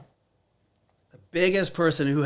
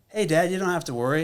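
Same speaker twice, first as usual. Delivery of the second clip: son's voice; 5 semitones higher, faster than usual. Retold or imitated. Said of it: "he goes".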